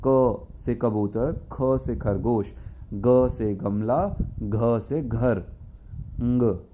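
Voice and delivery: slow, deliberate consonant chant; slow letter drill. Shown as a demonstration. Teacher drilling consonants for children, slow careful chant. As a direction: recite each letter slowly for children. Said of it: "जब आप क बोलोगे".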